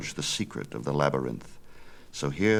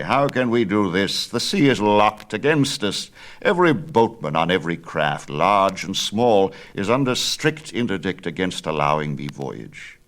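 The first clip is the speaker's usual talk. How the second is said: put-on louder, firm old craftsman, fearful of the king; insist, louder, that he must stay; old Daedalus; 5 dB louder than usual. Father explains to son why he must stay, louder.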